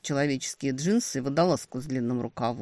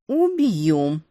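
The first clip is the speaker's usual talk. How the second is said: warning; 7 dB louder than usual. A narrator's reading. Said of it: "предупредила я".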